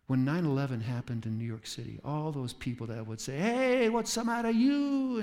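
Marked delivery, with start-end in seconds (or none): 3.4-5.2 high, loud mock quarrel shout; mock yelling. Neighbors yelling at each other, mock loud shout. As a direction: bark it like an angry New Yorker neighbor. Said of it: "and yelling at each other".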